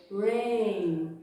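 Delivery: drawn-out "rain" with a curled R; curled English R. Shown as a demonstration. Teacher modelling words for parents, curled R. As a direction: start "rain" with the tongue curled back. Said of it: "sempre com esse R enrolado".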